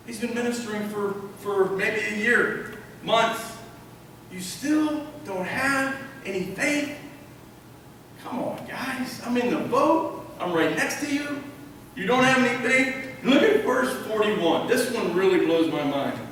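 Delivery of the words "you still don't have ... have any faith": mild exasperation. Acted. Acted Jesus chiding disciples.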